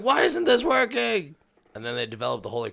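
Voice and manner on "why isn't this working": high, slow, loud vampire whine; a baffled vampire cries out. Acted. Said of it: "I like your vampire voice".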